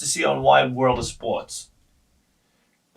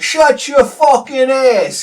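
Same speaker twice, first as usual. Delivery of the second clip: high, loud, slow mock snarl; copying the line; 11 semitones higher, 9 dB louder, slower than usual. Boys copying Anthony, loud high mock snarl. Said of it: "and we're like".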